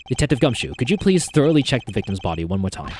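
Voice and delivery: put-on lightly British accent, measured prosecutor; British-accented Edgeworth. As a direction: give a polite order in a light British accent. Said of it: "a British accent for Edgeworth".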